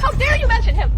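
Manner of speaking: loud, high-pitched indignation; outraged rebuke. Acted. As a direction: lash out in offense. Outraged at rival's words.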